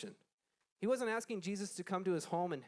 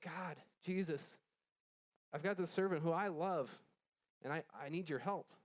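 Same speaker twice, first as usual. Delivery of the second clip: mild pleading. Acted. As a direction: beg for help with understated emotion. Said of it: "He was pleading".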